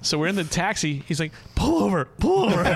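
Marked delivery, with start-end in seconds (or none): 1.6-2.6 high, loud order to the driver; urgent call. Acted. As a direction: bark it out at the cabbie. Friend urgently orders taxi to stop.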